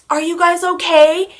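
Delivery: ranger checking in. Retold or imitated. Quotes the park ranger checking in.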